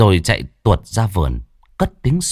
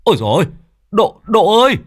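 much higher, loud panicked calling; panicked cry; 5 dB louder than usual. Acted. Father finds his injured son, panicked loud cry. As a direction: cry out in alarm for your son. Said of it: "thì hốt hoảng".

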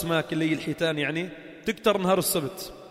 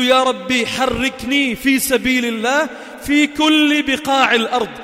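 loud, slow, pleading prayer to God; fervent prayer; 5 semitones higher, 6 dB louder, slower than usual. Shown as a demonstration. Preacher voicing the intention prayer, loud and slow. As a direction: cry it out slowly to God. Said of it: "عليك تنوي، تقول له".

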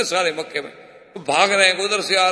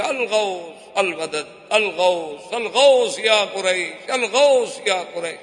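drawn-out mock wail of al-ghawth; calling for help, stretched slowly; retold cry for help; slower than usual. Man crying to Quraysh for rescue, drawn-out wail. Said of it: "وہاں سے چیخنا شروع کیا".

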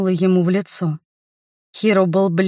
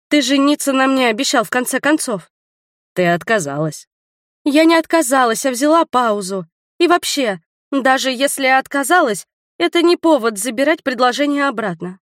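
indignant protest; 5 semitones higher than usual. Acted. Li protests to Hiro that he cannot withdraw his proposal, indignant and higher. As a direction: argue your case with wounded pride.

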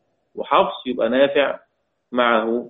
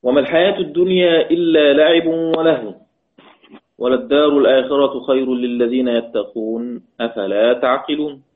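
Quran recitation. Shown as a demonstration. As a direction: recite the verse in tajweed style. Teacher recites Quran verse.

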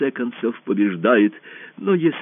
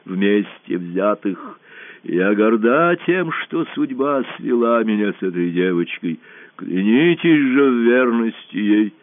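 slow, measured proclamation; solemn last address; 3 dB louder, slower than usual. A narrator's reading. Dying empress handing power to a girl, solemn. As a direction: proclaim it slowly, with weight.

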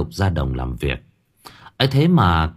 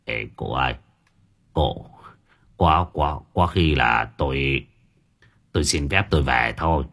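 quiet, shaky stammer of fear; trembling voice; 7 semitones lower, 4 dB quieter than usual. A narrator's reading. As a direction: stammer it out, scared stiff. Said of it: "giọng nó run rẩy".

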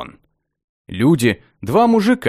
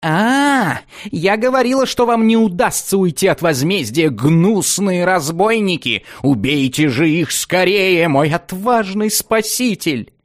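high, slow shrieking woman voice; shrill shriek; 6 semitones higher than usual. A narrator's reading. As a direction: screech it out like a captive lady. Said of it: "из-под мешка пронзительно завизжали".

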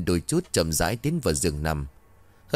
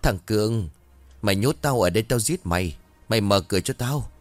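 raging yell. Acted. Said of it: "thằng bé gào lên chửi".

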